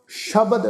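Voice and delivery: ਸ਼ਬਦ with a clear sh; teacher models ਸ਼ਬਦ; pronunciation model. Shown as a demonstration. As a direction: start ਸ਼ਬਦ with ਸ਼, not s. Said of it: "ਸੱਸੇ ਪੈਰ ਬਿੰਦੀ ਲਗਾ ਕੇ".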